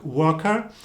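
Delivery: soft British "worker", no hard R. Shown as a demonstration. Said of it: "in British English it would sound a little bit softer".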